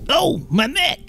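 pained groan. Retold or imitated. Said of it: "does make me go".

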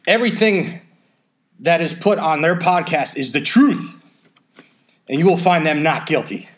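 formal courtroom address, a touch pompous; mock defense lawyer. Defense counsel opens the case to the jury, mock-formal speech. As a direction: play the earnest defense counsel pleading to the jury. Mock trial opening statement.

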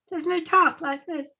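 lightly voiced Canadian professor; Jordan Peterson impression. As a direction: mimic the professor's strange accent. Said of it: "did you like my impression".

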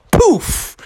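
high-pitched vanishing poof; sudden poof. A narrator's reading. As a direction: pop out a magical poof. Sound effect in the story.

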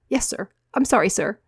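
small voice, eager to appease; meek boy. Acted.

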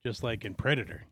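talking around a wad of chew; chewing tobacco. Real, not acted. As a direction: mouth full of chew. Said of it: "I also have a big wad of chew in my mouth".

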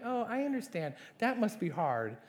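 softly patronizing sympathy; indulgent eye roll. Acted. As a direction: humour them with an inward eye roll. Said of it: "with his inward eye roll while he's smiling".

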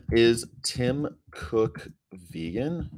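each word spaced out, very slow; drawn-out question, pausing between words; slow, deliberate question. Real, not acted. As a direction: ask it word by word with long gaps. Repeats question slowly, word by word.

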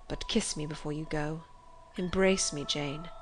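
low, soft entreaty; hushed, loving request; tender plea. A narrator's reading. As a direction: plead gently for an embrace. Pleads with the imagined dream Jane.

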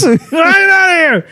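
high, drawn-out mock shout; play-acted yell; shouted dismissal. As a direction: banish them like a hammed-up movie villain. El Guapo banishes the amigos.

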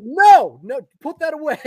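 put-on scolding the kid, half-laughing; mock alarmed no. Father stopping son from swearing, mock alarmed. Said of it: "And I was like".

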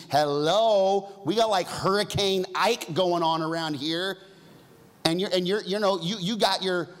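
high, loud frantic plea; panicked disciples. Acted. Disciples yelling at sleeping Jesus in the storm, frantic. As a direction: shake him awake in a panic.

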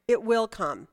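"It will come" stated as a certainty; firm falling delivery of "It will come"; emphatic statement. Shown as a demonstration. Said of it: "It's an a-, emphatic".

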